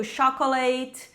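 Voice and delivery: "chocolate" slowly as "sho-ko-late"; common learner error. Shown as a demonstration. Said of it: "não é chocolate". ("chocolate" errado, com som de X)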